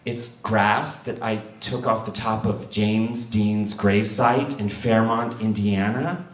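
slow, trembling voice; shaky voice. Retold or imitated. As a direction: answer nervously, slowly. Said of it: "with a shaky voice".

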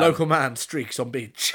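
a hint of a newspaper headline read, drawn out; slow mock local-news headline. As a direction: lightly play a slow headline reader, amused. Mock newspaper headline about friend.

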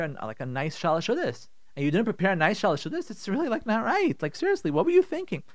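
acted spouse complaint. Spouse scolding about no pre-fast meal, building indignation. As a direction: play the fed-up spouse, mild grumbling building to outrage.

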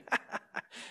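imitated breathy, voiceless cackle; Joker-like laugh. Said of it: "like I was driving with the Joker".

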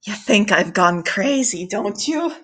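lightly unhinged, a questioning lift on the end; a touch of madness, understated; intentionally crazy. Acted. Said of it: "a little more intentionally crazy than I meant to".

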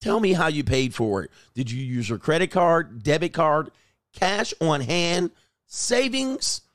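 mock chummy investigator; fake friendly interrogation. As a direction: sweetly pump him for information.

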